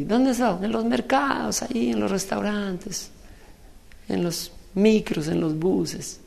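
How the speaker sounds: high, soft little banknote voice; ten banknote. Retold or imitated. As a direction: chat high and softly as a humble banknote. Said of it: "vinieron los de diez". (vocecita aguda y suave de billete humilde)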